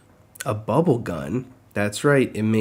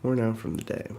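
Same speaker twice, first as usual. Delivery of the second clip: yawning. Real, not acted. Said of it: "I keep yawning".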